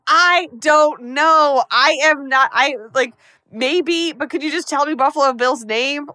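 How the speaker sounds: high, slow start, then a loud rush of frustration; mock-flustered, stammering up high; flustered Clarice. Clarice flustered, begging Hannibal for the name, high-pitched.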